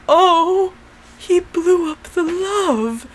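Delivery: high, slow, drawn-out lament; mock dismay. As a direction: wail like a disappointed cartoon crowd. Voices dismayed crowd.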